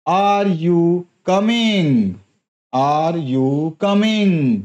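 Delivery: Are you coming? said slowly, stretched; slow, drawn out question; question tune demo. Shown as a demonstration. Teacher repeating the example question for students. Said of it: "यहाँ पर जो है".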